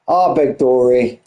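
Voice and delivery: breathless after a hectic race; winded, catching breath. Real, not acted. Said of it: "I'm out of breath".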